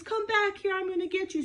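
hammed-up villain calling out; angry Pharaoh call. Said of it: "And he says".

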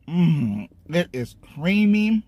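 talking while chewing; muffled chewed words; mouth full. Real, not acted. Seen 5: Fork to mouth at -1.0; food visible in chewing mouth through 4.7.

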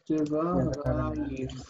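diva raich drawn out very slowly, syllable by syllable; slow model word. Shown as a demonstration.

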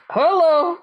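high, giggly, embarrassed; nervous laughing hello. Retold or imitated. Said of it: "And I'm like".

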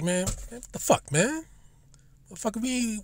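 hushed exasperated spook muttering; hushed CIA agents. Retold or imitated. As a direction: hiss it like agents shocked behind closed doors. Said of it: "Now the C I A is like".

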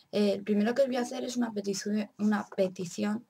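words tripping from a sore swollen jaw; swollen jaw speech. Real, not acted. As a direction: talk around a painful wisdom tooth. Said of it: "Perdonad si hablo un poquito mal".

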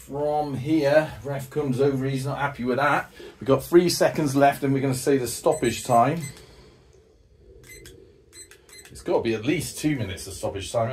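running match commentary, lively and quick; live play-by-play. Acted. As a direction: call the game as it unfolds.

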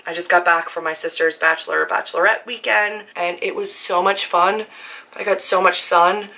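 raspy, hoarse from screaming. Real, not acted. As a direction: voice worn out and hoarse. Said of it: "why it sounds like I've been, like, a lifelong smoker".

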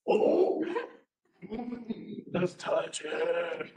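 high, very slow coaxing; coaxing reassurance. Retold or imitated. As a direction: sweetly talk them into touching it. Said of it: "No, see, I'm just".

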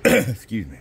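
hoarse, voice giving out; scratchy worn-out voice; losing voice. Real, not acted. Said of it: "I'm losing my voice a little bit today".

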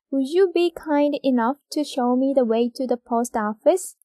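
very slow, word by word read; slow dictation. Shown as a demonstration. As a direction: dictate slowly for the class. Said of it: "일 번". (받아쓰기처럼 아주 천천히)

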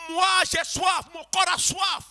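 prière ardente qui monte; model prayer, rising. Shown as a demonstration. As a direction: lead them in crying out to the Lord. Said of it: "et dis-lui".

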